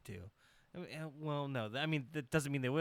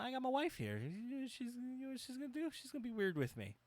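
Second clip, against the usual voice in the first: mock Matt Hardy; 11 semitones higher, 5 dB quieter, faster than usual. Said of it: "He's like".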